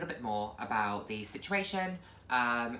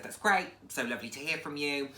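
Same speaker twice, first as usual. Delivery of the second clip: mock enthusiastic reply; 2 semitones higher than usual. Her own enthusiastic reply, retold.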